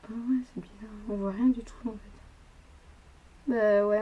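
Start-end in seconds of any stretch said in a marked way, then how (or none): 0.0-2.0 whispering. Real, not acted. Aside, unvoiced.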